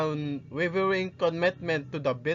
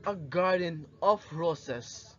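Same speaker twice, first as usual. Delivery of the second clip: passionate monologue. Acted. Rizal addressing the youth of his country, passionate and inspiring. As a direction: deliver a stirring speech, weighing each phrase. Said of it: "direct address and passionate tone".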